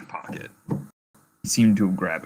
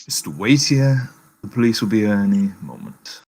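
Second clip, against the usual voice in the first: put-on polite but firm, German-accented; 2 semitones lower than usual. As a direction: apologise formally in a German accent. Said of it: "you do the accent of that".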